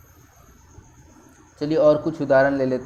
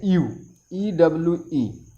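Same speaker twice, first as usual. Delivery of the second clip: slow spelling. Shown as a demonstration. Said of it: "इसका उच्चारण यू होता है".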